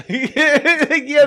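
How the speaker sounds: high, loud drawn-out mock groan; mock dazed player. Buddy mocks Russell Wilson after the hit, loud mock groan. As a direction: play the quarterback reeling from a hit. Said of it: "He's like".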